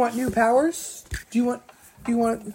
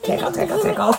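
playful tickling; 8 semitones higher, faster than usual. Real, not acted. Parent tickles child playfully.

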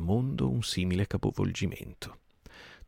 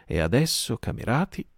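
louder, rising call to attack; rally them to charge; raised voice; 6 semitones higher, 3 dB louder than usual. Acted. Merry rallies the crew to attack, loud rising call. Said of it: "alzò la voce".

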